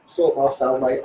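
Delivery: low, soft, slow mock order to the prison officer; an inmate low-key asking the officer to sort his cell; cheeky prison request. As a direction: drawl it lazily like a lag asking a favour. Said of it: "I used to say that".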